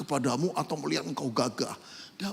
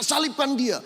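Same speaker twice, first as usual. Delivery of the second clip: crowd shouting; 8 semitones higher than usual. Retold or imitated. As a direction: shout it again like the mob. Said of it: "orang teriak-teriak".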